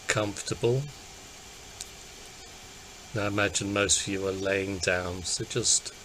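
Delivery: calm, unhurried body-scan guidance; guided meditation. Acted. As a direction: guide listeners gently into relaxing, with long pauses.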